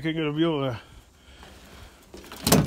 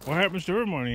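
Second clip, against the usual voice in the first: imitating a commenter; 4 semitones higher than usual. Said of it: "Every commenter was going".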